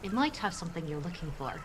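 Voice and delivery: soft voice sent into his ear; quiet secret message; hushed telepathic message. Acted. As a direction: murmur it like a voice in his head.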